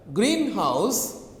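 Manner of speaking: greenhouse with "green" stressed. Shown as a demonstration. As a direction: hit the first syllable of greenhouse. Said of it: "you stress on the black".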